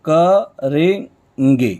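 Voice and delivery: करेंगे stretched very slowly, syllable by syllable; drawn out. Shown as a demonstration. Teacher drawing out करेंगे so students hear each part. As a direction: spell out करेंगे slowly for the class. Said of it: "ठीक वैसे ही करेंगे".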